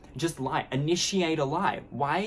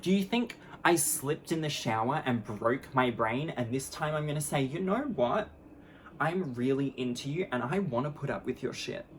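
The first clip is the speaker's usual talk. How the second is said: mocking rant; 2 semitones higher than usual. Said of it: "and I'm like".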